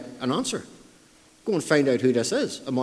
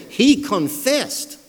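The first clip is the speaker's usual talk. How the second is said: "He confessed" slow, high and emphatic; stress on confessed; 6 semitones higher, 4 dB louder, much slower than usual. Retold or imitated. Preacher driving home the confession, emphatic "confessed". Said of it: "we have the word stressed twice".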